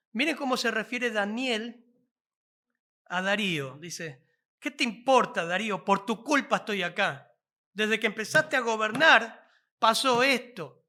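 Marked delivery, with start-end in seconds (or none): 4.6-10.9 a loud, cheeky retort flung at the king; mock insolent reply. Preacher mocks a rude answer to the king, loud and cheeky. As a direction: snap back at the ruler like a rebel. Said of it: "No, no dijo así".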